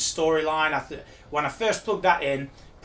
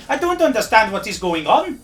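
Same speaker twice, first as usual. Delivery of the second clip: much higher and louder comic bloke voice; blustering high character voice; Pat White Muffin character; 7 semitones higher, 8 dB louder than usual. Acted. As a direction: boom it like a pompous old windbag. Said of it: "is Pat White Muffin".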